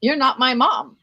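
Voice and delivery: half-acted stubborn shout of a four-year-old; retold child yelling. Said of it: "and he was yelling".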